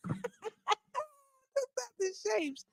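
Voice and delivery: high, faint, drawn-out through laughter; helpless laughing. Real, not acted. Laughing with friends over the misremembered dress, cracking up. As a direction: squeeze the words out while laughing. Laughing repeat of her punchline.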